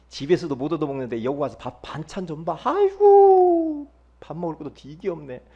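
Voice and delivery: hammed-up grumble; mock complaining. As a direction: imitate someone griping over the meal. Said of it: "원망하고 막 그러면서".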